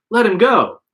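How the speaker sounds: loud high yell. A narrator's reading. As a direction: yell it at the attacker.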